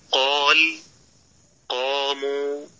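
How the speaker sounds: قال and قاموا with heavy, full qaf, slowly drawn out; emphatic qaf. Shown as a demonstration. Teacher showing heaviness before alif, emphatic qaf. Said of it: "تفخيما بليغا".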